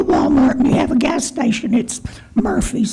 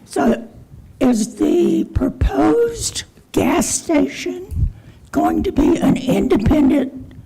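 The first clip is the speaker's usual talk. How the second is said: hoarse, strained failing voice; losing voice. Real, not acted. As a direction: voice giving out, some words near whispered. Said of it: "and I'm losing my voice".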